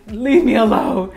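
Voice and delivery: high, loud, drawn-out plea; retold freak-out. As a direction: wail it slowly in mock panic. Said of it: "I'm freaking out inside".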